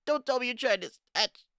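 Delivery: high, loud heroine's yell; commanding shout. Acted. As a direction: stop them in their tracks at full volume. Character bursts in, stopping someone.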